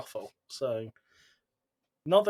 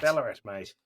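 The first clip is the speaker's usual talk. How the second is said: broad Aussie Ballarat, mate; Australian accent; 3 semitones lower than usual. Shown as a demonstration. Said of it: "say it in an Australian accent".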